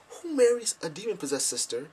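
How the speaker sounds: high-pitched disbelieving question; incredulous. Retold or imitated. Speaker reacting to the wedding news, high incredulity.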